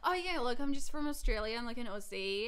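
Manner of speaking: put-on chirpy Australian girl voice; Australian accent. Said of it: "continue to be the Australian girl".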